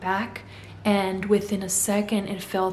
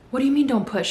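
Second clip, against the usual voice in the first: alarmed disbelief; 5 semitones higher, 4 dB louder, faster than usual. Retold or imitated.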